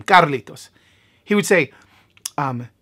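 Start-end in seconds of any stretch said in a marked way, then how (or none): 0.0-0.7 "Carlitos" with a tapped Spanish r; Spanish-accented "Carlitos"; Spanish pronunciation. Shown as a demonstration. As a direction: say "Carlitos" the Spanish way, as his dad would. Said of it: "this is how you say my name".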